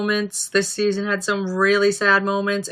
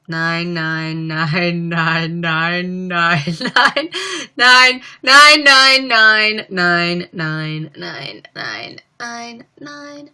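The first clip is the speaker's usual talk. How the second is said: stretched out nines; much slower than usual. Acted. Second long drawn-out nine count.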